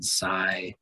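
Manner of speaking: silent pulled apart into si, then lent; split into syllables. Shown as a demonstration. Teacher placing the mark for students, silent split after si. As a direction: sound out silent in two slow beats. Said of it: "accent mark would come on the first syllable".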